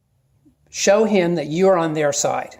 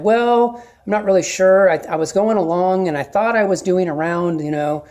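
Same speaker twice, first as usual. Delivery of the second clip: hemming and hawing. Shown as a demonstration. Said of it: "I like to just hem and haw".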